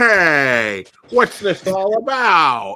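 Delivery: booming, drawn-out, slow sixties movie voice. Imagining a character noticing something is up in the village, in his stupid 1960s voice. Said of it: "in his stupid nineteen sixties voice".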